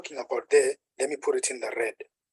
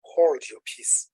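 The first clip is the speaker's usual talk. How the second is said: slow, deliberate hold your peace; slow modern wording; slower than usual. Shown as a demonstration. Preacher explaining the modern meaning, slow and deliberate. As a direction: spell it out slowly for the congregation. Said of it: "That's the King James way of saying".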